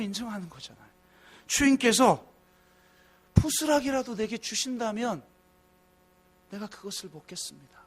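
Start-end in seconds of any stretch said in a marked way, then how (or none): 3.3-7.8 pleading softly. Retold or imitated. Woman begs for crumbs.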